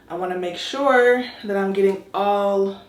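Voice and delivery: breathless from scrubbing; panting a little while talking; out of breath. Real, not acted. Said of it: "I'm really out of breath".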